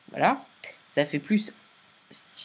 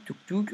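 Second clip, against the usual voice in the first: quick "touk touk" in higher pitch; little placement sound effect; 4 semitones higher than usual. Shown as a demonstration. Tutorial maker showing viewers where keyframes go, playful "touk touk". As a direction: verbal click-click as keys drop.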